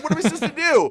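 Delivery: high, loud helpless question; re-enacted incredulous appeal; retold exasperation. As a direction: throw the question up in disbelief.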